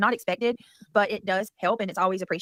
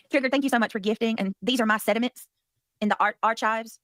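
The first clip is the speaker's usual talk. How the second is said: imitating Granny. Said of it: "she's been practicing you, Granny".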